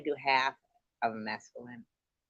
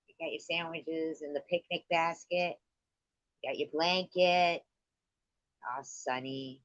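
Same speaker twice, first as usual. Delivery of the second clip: mock guided visualization; 4 dB quieter than usual. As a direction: ease them into the picnic daydream. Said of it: "she goes".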